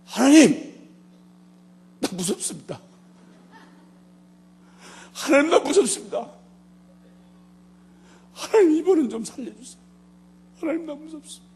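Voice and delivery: high, desperate plea; frightened cry to God. Retold or imitated. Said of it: "소리를 지른 거 아니".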